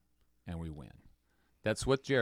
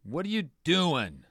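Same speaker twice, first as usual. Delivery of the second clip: higher, louder stern command; a touch of divine rebuke; commanding God; 5 semitones higher, 6 dB louder, much slower than usual. Acted. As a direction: order him up off the floor. Voicing God's command to Joshua.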